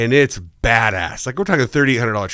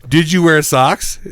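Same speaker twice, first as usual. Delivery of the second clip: slow, insistent mock disbelief; retold incredulous question; 3 semitones higher than usual. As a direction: replay the question drawn out, amazed. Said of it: "So I was like".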